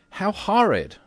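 high, loud cry of a lady appalled; acted high outburst of horror; horrified cry. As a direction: exclaim in shrill-pitched disgust. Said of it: "cried Missus Otis".

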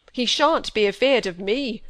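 put-on old Yorkshire squire, full of grief; heavy-hearted old man's lament; grieving old squire. A narrator's reading. Squire grieving over grandson.

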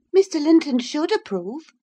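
high, firm and certain; decisive Catherine. A narrator's reading. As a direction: settle it firmly.

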